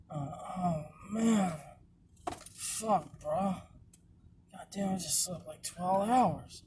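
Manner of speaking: lightly voiced twitchy addict, drawn out; tweaker voice. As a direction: play a strung-out tweaker, slow and slurred. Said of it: "Do your tweaker voice".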